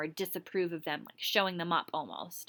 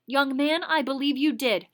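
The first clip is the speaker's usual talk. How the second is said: stern accusation; 5 semitones higher, 6 dB louder than usual. Acted. Teacher accusing the boy.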